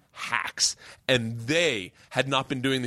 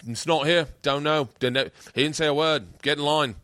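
lightly put-on Aussie brush-off; rough, unsure Australian accent; attempted Australian accent. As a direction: turn someone away in a mock Aussie accent. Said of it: "I think I'm doing Australian".

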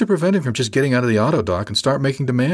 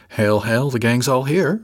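bright; 3 semitones higher, slower than usual. Acted. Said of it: "Freddie said brightly".

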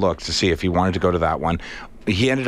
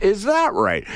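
skeptical; 10 semitones higher, slower than usual. Retold or imitated. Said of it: "And I was like".

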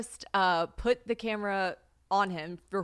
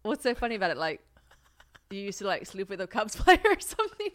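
3 semitones higher than usual. Retold or imitated. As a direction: imitate an Englishman's questioning, amateur accent. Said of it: "cancel me for this accent".

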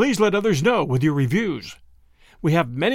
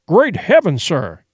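exploding in shock. Acted. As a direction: burst out in horror. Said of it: "Consul Linkford exploded".

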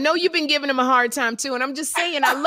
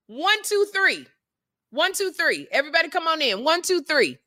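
mock count-in; 4 semitones higher than usual. Counting family in.

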